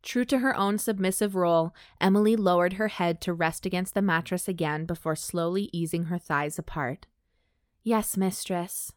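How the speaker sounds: measured, even audiobook read; composed narrator, pausing between phrases; story narration. A narrator's reading. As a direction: read the story aloud with clear, careful phrasing. Reads erotic fiction aloud.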